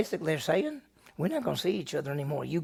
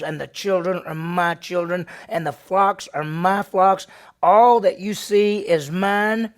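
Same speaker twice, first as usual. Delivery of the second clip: possessive anger; 7 dB louder than usual. Acted. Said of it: "picture ... how he's saying this".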